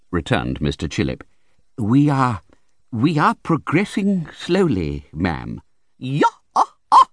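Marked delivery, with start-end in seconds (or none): 1.8-5.6 slow, timid, hesitant doctor voice; meek doctor. A narrator's reading. Meek doctor hedging before the fierce aunt, slow. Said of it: "in his meekest manner". 6.0-7.1 high, loud snarling yah. A narrator's reading. Aunt snarling at the timid doctor, loud and high. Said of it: "with such a snarl at him".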